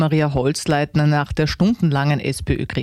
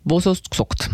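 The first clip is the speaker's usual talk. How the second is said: lightly put-on Upper Austrian dialect; oberösterreichischer Dialekt; 3 semitones higher than usual. Shown as a demonstration. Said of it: "Wer das als Deutschlernender zum ersten Mal hört". (oberösterreichische Mundart)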